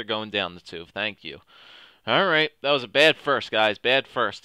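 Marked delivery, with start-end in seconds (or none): 2.1-4.4 scolding shout. Real, not acted. Scolding his team after period.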